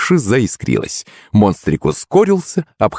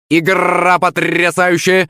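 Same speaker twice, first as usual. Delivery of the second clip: high, drawn-out parrot squawk; screeching parrot; 10 semitones higher, slower than usual. A narrator's reading. Parrot commentating on the game, high slow screech. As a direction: screech it slowly like an excited parrot. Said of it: "заверещал попугай".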